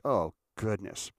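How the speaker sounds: slow, deflated aside; dry, drawn-out exasperation; weary dismay. Retold or imitated. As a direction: let it out slowly, unimpressed. Acts out weary reaction.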